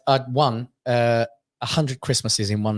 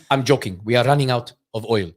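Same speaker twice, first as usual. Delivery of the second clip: put-on Iranian-accented deadpan punchline; 4 semitones lower than usual. Comedian friend admits he is joking, Iranian accent. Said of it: "does the whole Iranian thing".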